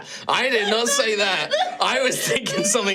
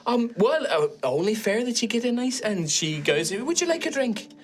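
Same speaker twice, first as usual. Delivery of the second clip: put-on Irish accent. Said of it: "Why are you Irish?".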